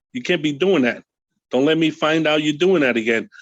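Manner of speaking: a mild hint of a stern officer; firm voice. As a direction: sound a little firmer to the inmate. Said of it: "with a firm, uh, voice".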